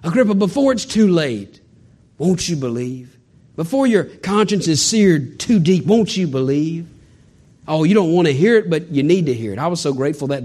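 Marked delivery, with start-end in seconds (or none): 0.0-6.9 pleading appeal. Acted. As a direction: ask it gently, drawing it out. Paul pleading with Agrippa.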